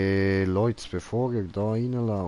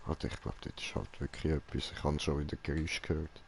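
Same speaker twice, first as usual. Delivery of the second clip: flüsternd; 4 semitones lower, 8 dB quieter, faster than usual. Real, not acted. Whispers after hearing noise.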